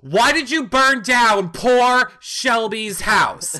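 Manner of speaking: slow, mock-stern question; mock accusation. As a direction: scold him playfully.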